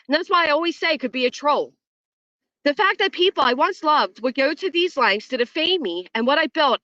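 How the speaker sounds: dramatic reading. Acted. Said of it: "I'm gonna read this in dramatic style".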